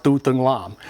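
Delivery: "Tu Thung Lam" said as a Vietnamese name; "Tu Thung Lam" pronounced the Vietnamese way; Vietnamese pronunciation. Shown as a demonstration. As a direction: give "Tu Thung Lam" its native Vietnamese sounds. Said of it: "it's pronounced".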